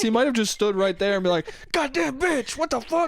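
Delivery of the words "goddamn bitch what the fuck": higher, hammed-up grumbling ex; mock angry rant. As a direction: play the offended ex muttering. Mocking the ex-boyfriend's rant.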